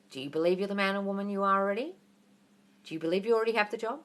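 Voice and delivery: ordinary delivery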